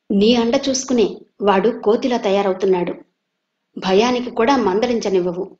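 a touch of a son snapping at his mother; mild angry outburst. Acted. Viswanatham flaring at his mother, mildly heated. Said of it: "అని తల్లి మీద ఎగిరాడు".

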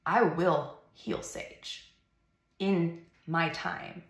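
slow, calm, steady; calm voice of God. Retold or imitated. God answers the weeping mother, slow and calm. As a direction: speak gently with patient certainty. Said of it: "I heard God say".

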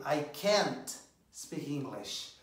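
slow, can't drawn out; slow model sentence. Shown as a demonstration. Teacher modelling the negative slowly. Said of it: "você falaria o quê?".

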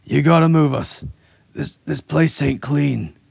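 high, loud, urgent trooper; agitated demand. A narrator's reading. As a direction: plead loudly to get moved out.

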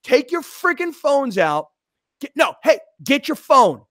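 high, loud hype-man shouting; yelling at the crowd. Retold or imitated. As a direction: rile up the whole section, loud and high. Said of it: "I'm yelling at him".

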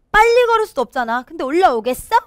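high, quick taunt; acted jeering; teasing. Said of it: "이러면서 막 놀리는 거예요".

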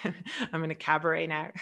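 laughing. Real, not acted. Laughs at herself mid-talk.

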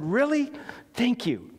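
high surprised question, then settling into thanks; sincere thanks. Acted. Preacher answering someone who corrects him, sincere thanks. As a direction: take correction gladly, without sarcasm. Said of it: "With not no sarcasm or".

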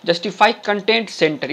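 very slow, word by word; slow dictation. Shown as a demonstration. Teacher dictating code to viewers, very slow. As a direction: spell it out slowly so students can type it. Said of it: "यहाँ पे लिखिए".

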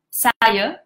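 Saya with the last A as a neutral schwa; neutral vowel. Shown as a demonstration. Learner trying Malay, Saya ending in a neutral vowel. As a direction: end Saya on a mid-central uh, between A and E. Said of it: "I use this vowel".

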